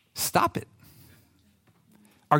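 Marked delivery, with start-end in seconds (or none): 0.1-0.7 whisper. Acted. Pastor gently scolding the anxious listener, whispered. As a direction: stop it, whispered.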